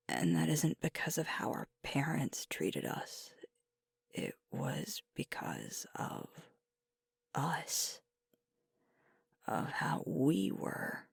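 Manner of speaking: high, wistful, holding back tears; emotional. Acted. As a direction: insist on the bond through a tightening throat. Emotional explanation of their lifelong bond.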